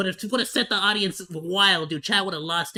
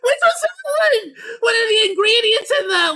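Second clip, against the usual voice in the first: laughing shout; 14 semitones higher, 5 dB louder than usual. Real, not acted. Cracking up at the cake.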